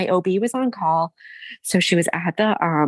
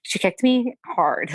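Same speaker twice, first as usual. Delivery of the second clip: after crying; 7 semitones higher, slower than usual. Real, not acted. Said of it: "sorry, I started crying about this".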